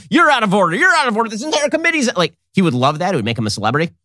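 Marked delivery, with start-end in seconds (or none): 0.1-2.1 Al Pacino courtroom rant. Retold or imitated. Commentator mocking a witness, hammed-up Pacino outburst. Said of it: "do the sort of Al Pacino and Injustice for All".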